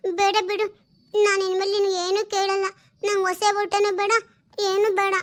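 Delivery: a lightly voiced small girl, sulking; little girl. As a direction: play the daughter whining for new clothes. (ಹಠ ಮಾಡುವ ಪುಟ್ಟ ಹುಡುಗಿಯ ಧ್ವನಿ)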